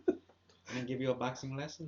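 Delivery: De La Hoya. Acted. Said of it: "then do De La Hoya".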